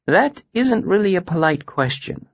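high-pitched, mild correction; gentle. A narrator's reading. Master correcting a student's question, gently. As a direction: correct gently, without scolding. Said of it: "he said gently".

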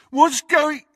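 high, loud mocking echo, cut off; mocking mimicry. A narrator's reading. Crabbe mocks Ron's question, mimicking. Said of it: "mimicked Crabbe".

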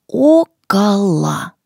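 slow, loud, syllable by syllable; slow and clear. Shown as a demonstration. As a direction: spell it out slowly for learners. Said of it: "Давайте повторим его несколько раз медленно".

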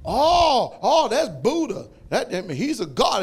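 mild imitation of an earnest explanation; restaurant woman. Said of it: "So I said".

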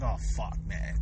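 low, hushed groan of dread; dismayed inner voice. Acted. Gassy lover thinking to themselves mid-sex, low and dismayed. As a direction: say it under your breath, sinking.

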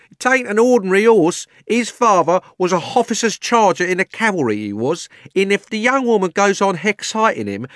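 high, loud, urgent London cabby; agitated cabby. Acted. Cabby warning police about his horse, loud and urgent. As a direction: argue loudly and urgently in Cockney.

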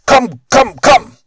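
high, loud shriek calling his sons. Acted. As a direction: scream for your sons in panic. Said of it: "he shrieked out".

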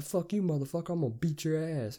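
worked-up retold outburst; mock yell. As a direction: retell a yelled comeback. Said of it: "we're just yelling it out".

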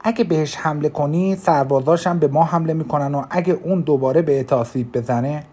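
angry. Acted. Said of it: "با عصبانیت گفتم".

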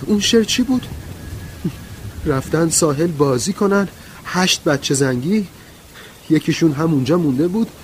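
very high, loud outburst; shrill loud woman's cry, sustained high. A narrator's reading. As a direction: cry it out at full pitch, near hysterical. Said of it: "ورا با صدای بلند گفت".

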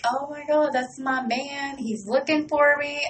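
mock gush. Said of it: "And I'm all like".

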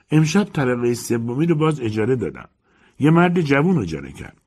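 put-on chatty old landlady, a bit pleased. Landlady gossips over tea.

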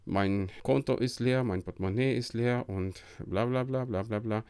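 imitating a whiny complainer; mock whining. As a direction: moan at God in a self-pitying tone. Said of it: "Und nicht rumjammern". (gespieltes Jammern)

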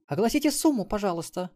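high, sweetly polite request; charming smile. A narrator's reading. Melissa asking madam her price, charmingly sweet. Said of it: "обворожительно улыбнулась она мадам".

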